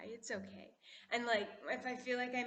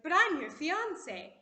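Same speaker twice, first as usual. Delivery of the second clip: Rose's protest; 5 semitones higher, 7 dB louder, slower than usual. Retold or imitated. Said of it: "she's like".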